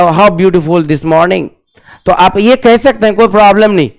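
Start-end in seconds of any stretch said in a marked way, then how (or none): 0.0-1.5 slow, stretched "How beautiful this morning"; slow example. Shown as a demonstration. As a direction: stretch it for the students. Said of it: "या". (धीरे-धीरे उदाहरण)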